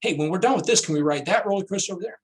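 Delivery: put-on high, fast kid's eager question; mildly hammed-up excited child; excited kids. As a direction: ask like a thrilled child begging for another ride. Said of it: "And they said".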